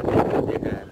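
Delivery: whispered gossip of people watching him; mock onlooker whisper. Vlogger mimics strangers whispering while he films. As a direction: breathe it like a curious bystander.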